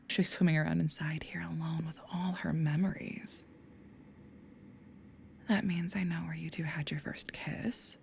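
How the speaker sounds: soft, menacing whisper; taunting whisper. Acted. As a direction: lean in close and gloat quietly. Demon taunts Rookie in whispers.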